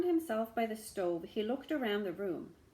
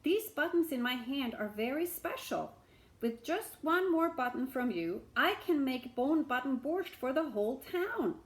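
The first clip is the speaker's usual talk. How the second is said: higher, louder sales pitch; persuasive beggar; 5 semitones higher, 4 dB louder than usual. Acted. Beggar persuading the shamus, enthusiastic.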